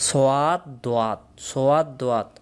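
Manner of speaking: সোয়াদ with a "wa" glide before a long "aa"; wrong maktab pronunciation. Shown as a demonstration. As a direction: say সোয়াদ দোয়াত as "so-waad do-waat". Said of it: "তাহলে আমরা সোয়াদও না, দ-, দোয়াদও না". (সোয়াদ দোয়াত, "ওয়া" যোগ করে ভুল উচ্চারণ)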